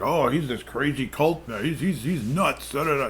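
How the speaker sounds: high, sing-song mock voice; mocking imitation. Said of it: "and they're like".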